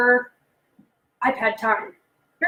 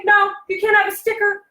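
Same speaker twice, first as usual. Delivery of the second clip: teacher's refusal; 5 semitones higher than usual. Shown as a demonstration. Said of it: "this is what teachers say".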